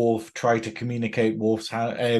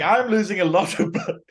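higher mock declaration; Worf; 6 semitones higher than usual. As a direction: repeat the line as a comic warrior impersonation. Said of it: "Yeah, he's like".

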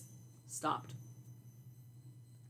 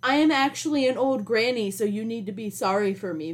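fake old granny voice; 3 semitones higher than usual. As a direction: play a pitiful old granny asking for sympathy. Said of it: "And her fake, ... voice".

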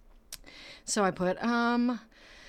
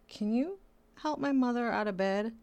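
patient's relative; 5 semitones higher than usual. Retold or imitated. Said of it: "And then they're like".

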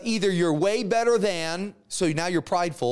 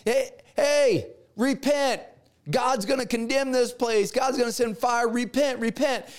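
higher, raised call to repent; street preacher calling out; 5 semitones higher than usual. Acted. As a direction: Jonah shouting doom to the city. Jonah voiced preaching to Nineveh.

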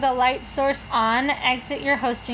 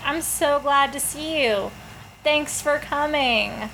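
hostess voice; 3 semitones higher than usual. Shown as a demonstration. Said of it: "that's my hostess voice".

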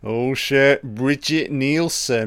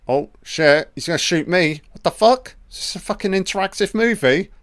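mock panic; 8 semitones higher, faster than usual. Commentator pleading with the on-screen gunman, hammed-up high panic. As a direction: squeal as if the screen gunman aims at you.

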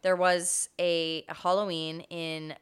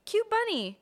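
imitating dad. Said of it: "he was like".

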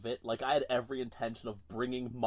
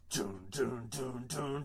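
chanted bass riff; 5 dB quieter, slower than usual. Retold or imitated. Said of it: "in typical fashion of a certain band".

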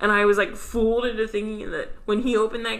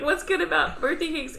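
higher put-on kid voice; cartoon kid voice; 7 semitones higher than usual. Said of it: "He says, like".

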